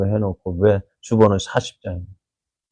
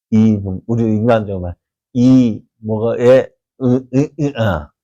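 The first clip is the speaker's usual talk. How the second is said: mock angry outburst. Hannah imagined lashing back at the priest, mock fury. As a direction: imitate someone too furious to find words. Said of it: "화가 내서 어떻게 할까요".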